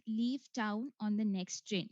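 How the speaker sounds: slow, deliberate dictation of the sentence; slow test prompt. Shown as a demonstration. Exam voice reading the sentence to the candidate, slow and clear. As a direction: read it out slowly like a recorded exam voice. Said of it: "you will listen to a voice saying".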